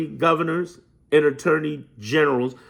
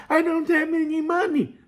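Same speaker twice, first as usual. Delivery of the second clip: high, whiny mock commenter; mock a broke commenter's whine; complaining commenter; 13 semitones higher than usual. Mocking a commenter who pleads no money, high whine. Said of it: "put stuff like that in the comments".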